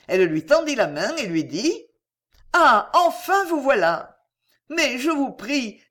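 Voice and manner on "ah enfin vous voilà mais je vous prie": high, slow gushing greeting; gushing welcome. A narrator's reading. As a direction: greet him with sweeping grace. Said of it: "avec toutes ses grâces".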